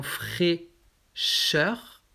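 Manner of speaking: fraîcheur slowly, aî as closed é; acute first vowel. Shown as a demonstration. Teacher gives an example to learners, closed é in fraîcheur. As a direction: say fraîcheur as "fré-cheur", drawn out. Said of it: "ça se prononce E".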